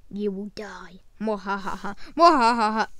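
whispered threat, evil laugh; menacing villain then cackle. Pretend.

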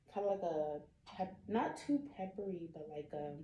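speaking with glass at lips; muffled by glass rim; talking into wine glass. Real, not acted. Seen 0: Wine glass rim held against lips throughout the labelled words.

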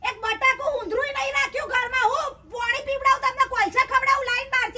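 high-pitched indignant complaint; quarrelsome retort. Acted. Quarrel over empty kitchen.

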